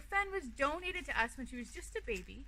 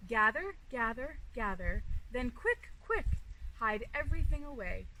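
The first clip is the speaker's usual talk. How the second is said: quick busy squirrel chatter, a bit louder; 5 dB louder than usual. Acted. Squirrel telling the fox to hoard, lightly voiced chatter. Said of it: "chatters a squirrel".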